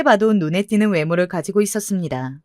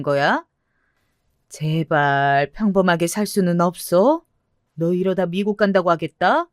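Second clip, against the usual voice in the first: exasperated mother. Acted. Mother scolds daughter.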